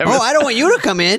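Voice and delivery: put-on high, fast old lady voice; grandma voice. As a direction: rattle it off as the grandmother.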